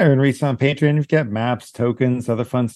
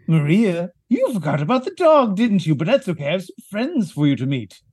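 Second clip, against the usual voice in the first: sinister coaxing voice; 4 semitones higher than usual. Acted. Player voices creepy character luring Maria.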